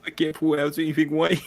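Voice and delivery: "white" for "right", R turned to W; comic mispronunciation. Pretend. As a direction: turn the R into W in "white". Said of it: "sort of Bostonian accent".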